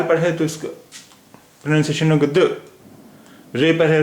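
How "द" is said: द as a bare halant d; vowelless d. Shown as a demonstration. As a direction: say द short, with only a tiny release. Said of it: "जब ये जज़म है".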